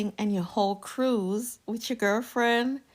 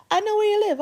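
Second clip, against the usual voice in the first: higher, louder, hammed-up threat; mock menace; 13 semitones higher, 6 dB louder, faster than usual. Teasing viewers with a mock-menacing threat. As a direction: play the creepy stalker for fun.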